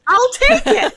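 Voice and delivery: eager. Retold or imitated. Eager Almanzo quoted laughing.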